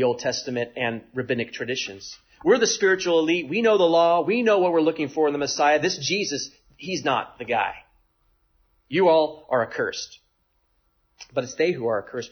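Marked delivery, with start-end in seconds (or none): 2.4-10.2 lofty, self-satisfied Pharisee boasting; arrogant boast. Retold or imitated. Pharisees boasting to the crowd, a hint of arrogance. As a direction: look down your nose at the crowd. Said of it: "They arrogantly remark".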